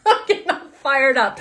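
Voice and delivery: laughing at her own rising excitement; excited laugh breaking into the words; fired up, laughing. Real, not acted. Tarot reader to viewers, fired up and laughing.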